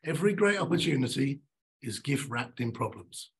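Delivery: "great" hit, "gift" slowed and dropping; stress on great. Shown as a demonstration. Speaker repeating the motto, punching "great". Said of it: "I'm gonna say this three times".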